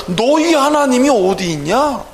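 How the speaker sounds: imitated jeer at believers; mocking taunt. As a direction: throw the question out as a taunt. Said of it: "조롱하고 있잖아요".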